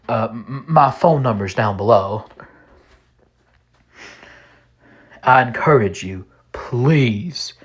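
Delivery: a hint of a Texas accent, mostly in the speaker's own voice; Texan accent. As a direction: read it as a genial Texan man, lightly. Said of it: "I'll be reading it in his delightful Texan accent".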